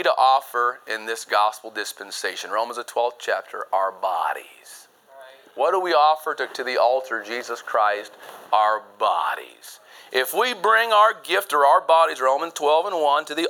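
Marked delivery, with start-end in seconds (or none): 3.7-4.9 breathy whispered answer, slowed. Acted. Preacher whispers the answer to his congregation. 8.5-9.8 breathy whispered answer, slowed. Acted. Preacher whispers the answer to his congregation.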